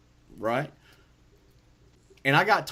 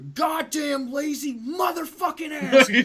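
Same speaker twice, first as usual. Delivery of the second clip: furious high shout, much louder; screaming; 13 semitones higher, 7 dB louder than usual. Retold or imitated. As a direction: scream it at the lazy nurses. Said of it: "But I'm screaming".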